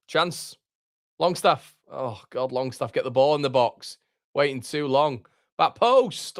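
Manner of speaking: rising, urgent cries as the chance builds; urging the player on, voice jumping high; excited live reaction. Real, not acted. Fan yelling at the stream as Leeds attack, excited and urgent.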